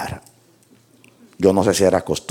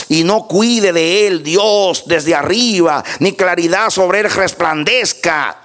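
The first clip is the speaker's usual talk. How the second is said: high, sustained pulpit proclamation; impassioned preacher reading a lament aloud; scripture declamation; 10 semitones higher, 4 dB louder than usual. Acted. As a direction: cry out Job's curse in long ringing phrases. Declaims Job's curse from scripture.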